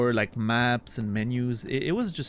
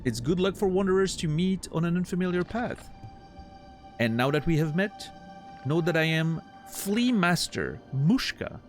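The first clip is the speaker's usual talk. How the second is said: higher, theatrical flea showman; grandiose flea circus showman; 6 semitones higher than usual. Acted. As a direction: boom it out like a ringmaster. Voices flea master dialogue.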